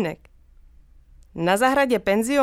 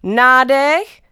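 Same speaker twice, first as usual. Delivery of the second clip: sudden loud command; shout; 3 semitones higher, 8 dB louder than usual. A narrator's reading. Mum shouting at the boy to take a breath before she throws him, loud. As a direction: bark it out as a quick warning to breathe. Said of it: "vykřikla".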